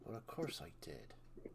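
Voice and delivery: low, smug West Country villain. Acted. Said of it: "doing a villain voice in West Country".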